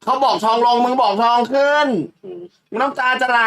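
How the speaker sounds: high-pitched, not angry. Real, not acted. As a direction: voice pushed up high in exasperation. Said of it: "ไม่ได้โกรธ แค่เสียงสูง".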